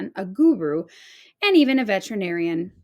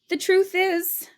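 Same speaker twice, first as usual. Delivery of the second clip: breathless whisper of a secret; whispered confession; 11 semitones higher than usual. A narrator's reading. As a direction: admit it under your breath.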